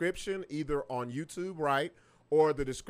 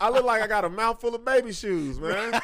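laughing; 4 semitones higher, 6 dB louder than usual. Real, not acted. Laughing at own joke.

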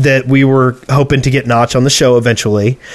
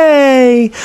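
excited yay; 12 semitones higher than usual. Retold or imitated. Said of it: "I'm like".

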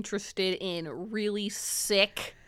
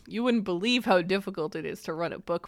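laughing. Retold or imitated. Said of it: "I was like".

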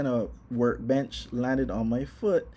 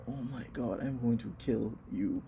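much softer, pained half-joking threat; muttered threat; 5 dB quieter than usual. Retold or imitated. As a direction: growl it under your breath through the pain. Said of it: "And I'm just there like".

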